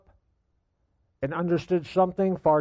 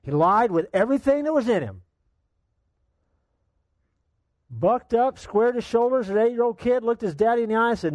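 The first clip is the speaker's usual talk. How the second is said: building intensity; 7 semitones higher than usual. A narrator's reading. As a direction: drive the story forward. Preacher building the story.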